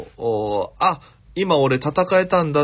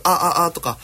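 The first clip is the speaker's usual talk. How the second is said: short, higher vocal-exercise syllables; raised, rhythmic practice notes; vocal warm-up demo; 5 semitones higher, slower than usual. Shown as a demonstration. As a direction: demonstrate an ordinary voice drill. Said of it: "その発声練習って普通".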